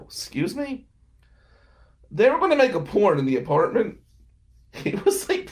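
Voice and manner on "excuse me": breathy high whisper of disbelief; stunned whisper. Retold or imitated. Roommate hears porn plan, whispers in disbelief. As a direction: gasp it out in shock. Quote after "I go.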